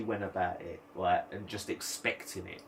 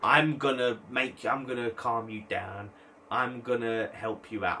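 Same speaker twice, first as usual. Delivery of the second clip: mock hero voice; slower than usual. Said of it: "he has to be the guy".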